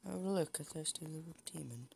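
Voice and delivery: vine quote. Retold or imitated. Gamer quoting a favourite vine to viewers, playful high imitation. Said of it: "I love that vine".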